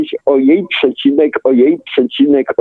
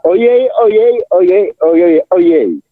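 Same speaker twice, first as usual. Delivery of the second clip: acted exclamation; 3 semitones higher than usual. Heroine Marycha seeing something for the first time, mock exclamation. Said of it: "zawołała".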